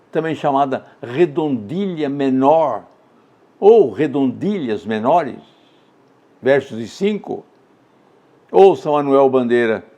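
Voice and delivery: usual speaking voice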